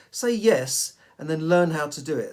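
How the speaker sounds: emphatic. Shown as a demonstration. Urging the audience to say yes.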